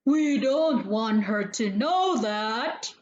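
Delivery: lightly voiced giant; a hint of a secretive giant; third large voice. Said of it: "said a third, very large voice".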